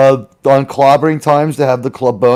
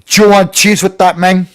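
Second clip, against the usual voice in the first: New York pizza guy; 3 semitones higher than usual. Retold or imitated. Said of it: "imitate someone born in Mexico".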